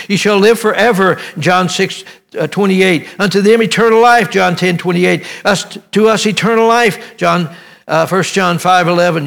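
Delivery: fervent revival preaching. Acted. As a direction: preach it, stacking the promises. Preaching scripture list.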